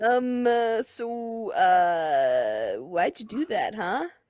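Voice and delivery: put-on, soft, sadistic, menacing voice. Retelling what she wrote in someone's comment section, in a put-on sadistic voice. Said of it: "there's the sadistic voice".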